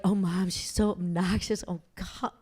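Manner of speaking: soft, mortified muttered complaint; embarrassed groan. Retold or imitated. Daughter groaning about her obnoxious mom, mortified. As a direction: sink into it, embarrassed.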